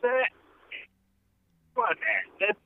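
breaking up bad connection; choppy cut off endings. Real, not acted. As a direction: audio dropping out mid-words. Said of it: "You're cutting out".

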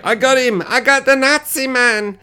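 high, gleeful mock boast; mock happy triumph. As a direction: imitate a character crowing over his win. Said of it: "And he's all happy".

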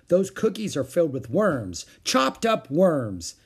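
put-on high, loud childish glee; gleeful. A narrator's reading. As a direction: relish the gross news, drawing it out. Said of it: "she gleefully told everyone".

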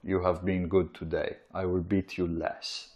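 lightly voiced cold tyrant; cold narcissist. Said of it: "the narcissist goes".

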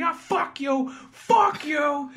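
high, brushing-off curse; hammed-up contempt; mock dismissive snarl. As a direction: wave them off like an angry New Yorker. Kaz brushing off passengers.

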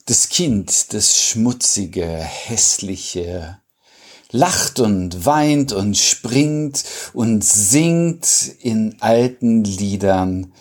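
slow, measured verse recital; spacious, deliberate poem delivery; poetry reading. Acted. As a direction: read the poem unhurriedly, pausing between phrases.

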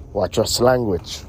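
Watch your slanguage with slanguage stressed; slow, stressed slanguage; slowed correction. Shown as a demonstration. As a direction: lean on slanguage, slow and deliberate.

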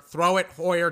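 urgent yell at the screen. Real, not acted. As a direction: yell it at the TV, begging him to throw. Urging quarterback louder, more urgent.

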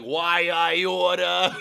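slow, high sputtering cartoon villain; sputtering foiled villain. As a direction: shake your fist, sputter it out. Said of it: "he's like".

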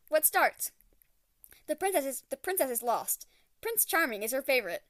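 reading a chapter aloud in an even storyteller voice; lightly voiced read-aloud of a novel; story narration. A narrator's reading. Reading a garbled Google-translated chapter to viewers, mild storyteller narration.

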